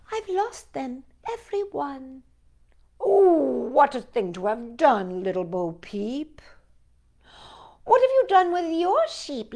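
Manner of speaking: gentle storytime read, dialogue voiced lightly; reading a poem to children. A narrator's reading.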